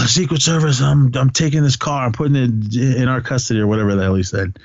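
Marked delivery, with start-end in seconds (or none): 0.0-3.6 mock winded, higher-pitched, opening gasp; imitated huffing and puffing. Frank commandeering a car after the chase, mock winded. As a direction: pretend to catch your breath after running. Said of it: "here comes Frank huffing and puffing".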